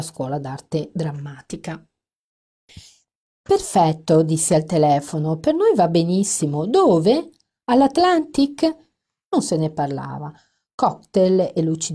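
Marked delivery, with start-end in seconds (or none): 3.4-8.6 1 sunny phone voice. Acted. Bright fake phone enthusiasm.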